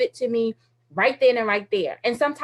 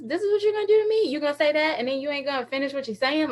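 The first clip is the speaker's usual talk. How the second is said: whiny complaint; 3 semitones higher, faster than usual. Retold or imitated. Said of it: "I like to run my mouth".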